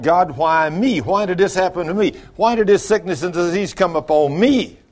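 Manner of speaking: mildly indignant complaint to God; mock protest at God; mad at God. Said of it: "gonna be mad at God".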